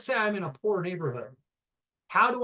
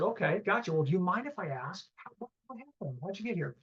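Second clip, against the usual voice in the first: softer, hushed gentle question; gentle, careful asking; 3 dB quieter than usual. Retold or imitated. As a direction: ease into it softly so she won't feel pried on. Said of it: "My tone, my style".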